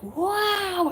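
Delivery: high, bright praise for the cat; a big cheer for a good kitty; excited praise. Retold or imitated. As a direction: make a huge deal of it. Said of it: "the positive reinforcement I would do is be like".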